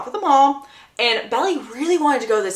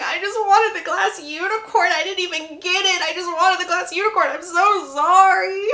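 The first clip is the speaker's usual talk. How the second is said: higher, tearful mock sob through the words; imitating crying; 7 semitones higher than usual. Belly apologizing to Conrad, mock tearful and higher. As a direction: play a little girl lightly faking tears. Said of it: "And she's crying".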